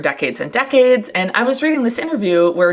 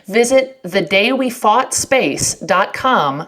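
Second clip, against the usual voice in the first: ad read. Acted. Reads sponsor ad.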